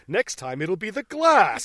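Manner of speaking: hammed-up slow warning from a film hero; mock movie threat. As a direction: draw out the threat and push the end. Quoting Bruce's threat from film.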